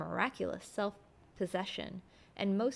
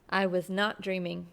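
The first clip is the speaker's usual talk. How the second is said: a touch of heat, a little louder; with some warmth; 4 dB louder than usual. Acted. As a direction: push back with mild indignation. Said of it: "I said with some warmth".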